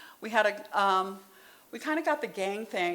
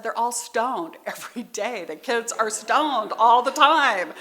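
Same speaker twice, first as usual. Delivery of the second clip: exasperated teachers; 3 semitones higher, 6 dB louder than usual. Retold or imitated. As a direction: mimic worn-out teachers pleading for help. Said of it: "And the teachers all said".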